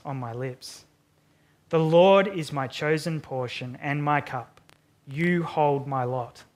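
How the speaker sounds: measured, reverent Bible reading; scripture reading. Acted. Pastor reading the psalm to the congregation, reverent reading. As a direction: read it out with reverence. Reads Psalm sixteen aloud.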